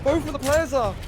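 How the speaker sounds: high, loud hype yell; excited shout. Real, not acted. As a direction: scream the big play. Climactic play call.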